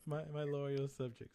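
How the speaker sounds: slow, grand lordly address; hammed-up ruler addressing subjects; dark lord. Playing a lord welcoming subjects.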